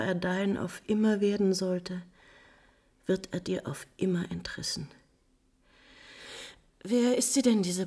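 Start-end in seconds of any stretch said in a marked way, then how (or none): 3.1-4.9 whisper. Acted. Countess pities the bride.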